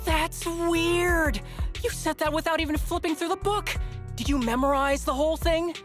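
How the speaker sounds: high-pitched, incredulous outburst; astonished exclaiming. Acted. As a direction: blurt it out in amazed disbelief. Astonished that colleague memorized manual.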